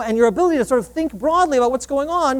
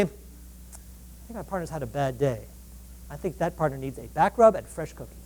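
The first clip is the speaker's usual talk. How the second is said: understanding; 9 semitones lower, 10 dB quieter than usual. Retold or imitated. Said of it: "interpret your partner's behavior two ways".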